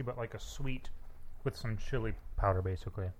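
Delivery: mouth full. Real, not acted. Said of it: "I can hear you chewing through the microphone".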